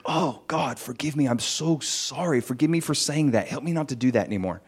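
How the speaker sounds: quiet prayer. Retold or imitated. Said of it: "I'd be like".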